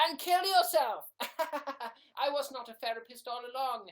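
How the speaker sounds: high, loud outburst; mock villain reveal. Fake therapist revealing the truth, shouting high and loud.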